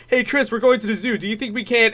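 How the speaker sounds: eager, high-pitched cartoon dad; Peter Griffin. Cartoon dad running to his daughter, eager imitation. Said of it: "he gets to Chris and he goes".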